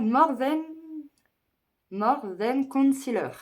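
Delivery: slow, careful English with a French accent. Real, not acted. Vlogger reading out the concealer's name, French-accented English. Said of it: "Excusez mon accent".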